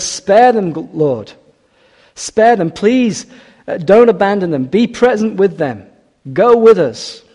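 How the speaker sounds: begging high and loud for the people; Moses pleading. Retold or imitated.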